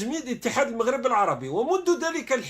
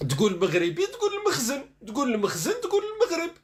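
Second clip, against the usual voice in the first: mocking parody; 4 semitones higher than usual. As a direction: parody the slogan, pitched higher. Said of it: "أي مواطن مغربي". (محاكاة ساخرة بصوت أعلى)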